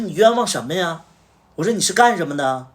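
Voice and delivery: loud, high, indignant snapping back; retold furious boss; angry retort. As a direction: shout down his excuses. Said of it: "特别生气".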